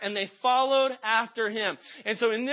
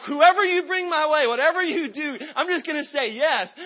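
loud, higher, pumped-up prayer; enthused; 6 semitones higher, 5 dB louder than usual. Retold or imitated. Man reminds God of his promise, enthused. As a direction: declare it loudly with rising excitement. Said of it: "And so I'm all enthused".

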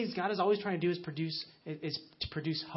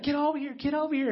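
urgent, higher and louder, calling someone over; panicked call; 8 semitones higher, 5 dB louder than usual. Retold or imitated. Adult panicking over the bloody child, calling the dad over. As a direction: mimic a frightened adult calling for help.

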